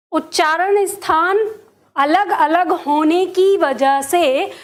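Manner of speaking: very slow, word-by-word delivery; measured dictation of a key point; slow, emphatic teaching. Real, not acted. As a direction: spell out the rule deliberately, stretching each word. Teacher spells out key rule.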